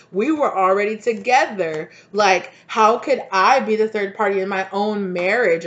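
mock indignant wife. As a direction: protest it like the wronged wife. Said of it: "they're playing up the whole".

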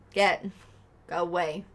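loud, firm "get" at the dog; sharp command. Real, not acted. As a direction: snap it out to shoo a pet. Shooing the dog off.

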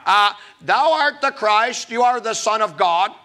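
hesitant guess. Acted. Disciples hesitantly guess answer.

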